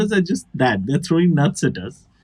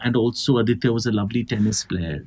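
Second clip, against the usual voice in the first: solemn eulogy; 5 semitones lower, 4 dB quieter than usual. Retold or imitated. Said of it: "someone was like".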